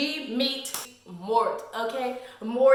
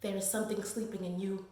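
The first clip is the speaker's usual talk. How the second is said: ominous hush; 5 semitones lower, 9 dB quieter than usual. Retold or imitated. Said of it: "And she's like".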